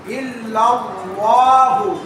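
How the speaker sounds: heavy lam, drawn out slowly; teacher models the correct ইল্লাল্লাহু; correct reading. Shown as a demonstration. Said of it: "সঠিকটা পড়তে হবে".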